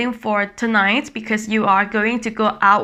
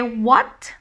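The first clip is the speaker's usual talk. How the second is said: "what" lifting at the end; rising surprise. Shown as a demonstration. Teacher comparing it to high tone, rising "what". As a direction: tip "what" upward as a question. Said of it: "that sounds similar to high tone".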